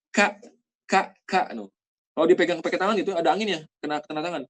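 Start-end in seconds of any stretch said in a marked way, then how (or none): 0.1-1.5 Ka with a puff of air on the k; breathy kaf. Shown as a demonstration. Teacher showing airy kaf sound. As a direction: aspirate the k so air hits the hand. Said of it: "kalau kaf itu ada anginnya".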